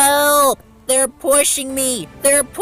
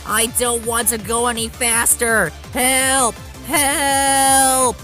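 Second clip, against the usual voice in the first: high, wailing plea; panicked shout; 10 semitones higher, 5 dB louder, slower than usual. A narrator's reading. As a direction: cry desperately for help. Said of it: "shouted James".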